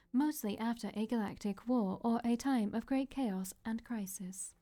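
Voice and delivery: lightly robotic AI voice. Acted. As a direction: speak like a calm machine. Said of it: "My sweet robot voice".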